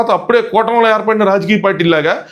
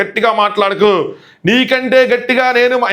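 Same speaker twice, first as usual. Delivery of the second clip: slow, higher mock angry scolding; Nataraju master's anger; 5 semitones higher, slower than usual. Retelling the master scolding Siva, a slow higher mock angry voice. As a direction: imitate a triggered elder telling someone off, slowly and higher. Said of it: "Nataraju master trigger అయ్యారు".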